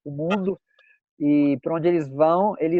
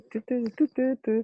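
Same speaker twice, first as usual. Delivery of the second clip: high playful woohoo, then soft tu-tu chant; excited cheer; 7 semitones higher, 5 dB quieter, faster than usual. Real, not acted. Host cheers the guest's booked ticket, high playful chant. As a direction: cheer him on, high and bouncy. Celebrating the São Paulo ticket.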